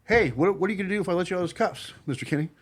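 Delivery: breezy, fast, offhand question; quick, light, casual ask; casual street version. Retold or imitated. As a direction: toss it off like a cop on the street. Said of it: "like you'd be on the street".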